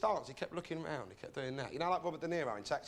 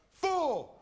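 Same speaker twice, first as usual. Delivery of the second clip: loud, much higher shout; impatient loud retort; barked answer; 12 semitones higher, 6 dB louder than usual. Retold or imitated. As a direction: snap it out as if it's obvious. Customer barks number at server.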